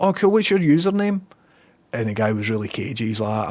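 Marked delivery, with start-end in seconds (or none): 0.0-1.2 mock excitement. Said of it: "And I'm like".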